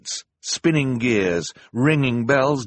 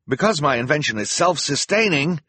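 calling down; 6 semitones higher, 3 dB louder than usual. A narrator's reading. Calling explanation down from basket.

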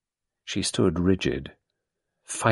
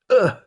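shuddering ugh; 9 dB louder than usual. Acted. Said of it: "She gave a quick shiver".

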